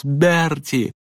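high, urgent call of recognition; startled boyish cry. Acted. Boy recognises his friend, cries out.

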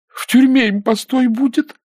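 very high, upset voice; indignant tearful retort. A narrator's reading. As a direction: snap back still upset, pitched high. Nina retorts through tears. (обиженно, высоким голосом)

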